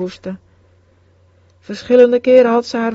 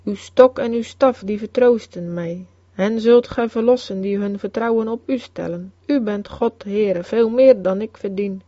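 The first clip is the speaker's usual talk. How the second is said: solemn tone. A narrator's reading. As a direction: recite it like a sacred vow, hushed by the end. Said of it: "zei ze op een plechtige toon".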